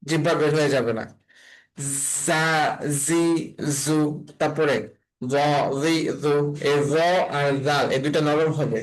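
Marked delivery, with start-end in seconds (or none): 2.2-4.0 জা, জি, জু each opened with a buzzing z, teeth together; drawn-out z starting জা, জি, জু; buzzed through teeth. Shown as a demonstration. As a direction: buzz জা, জি, জু with the tongue kept in. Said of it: "দাঁত দুইটা এভাবে কামড় দিয়ে".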